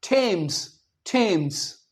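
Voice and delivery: थेम्स with a hard T, said twice for the class to repeat; थेम्स, थेम्स with a clean T, slow enough to copy; teacher leads the class: थेम्स with a hard T. Shown as a demonstration. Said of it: "मेरे साथ बोलें".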